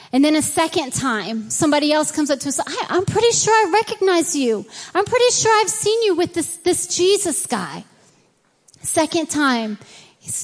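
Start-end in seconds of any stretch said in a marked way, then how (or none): 2.7-7.9 higher, quicker prying voice; suspicious bystander. Retold or imitated. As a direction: press him, sure you've seen him. Second accuser voiced.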